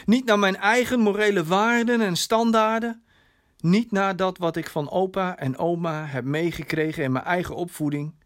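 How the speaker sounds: licht gespeelde vader, nadrukkelijk en verhoogd; schuldbewuste vader. Acted. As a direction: biecht je fouten op, met oplopende nadruk. (schuldbewuste, geëmotioneerde vader)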